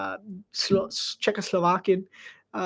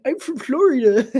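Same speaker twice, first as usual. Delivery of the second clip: put-on Irish accent; 4 semitones higher, 3 dB louder than usual. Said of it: "how my Irish accent got this good".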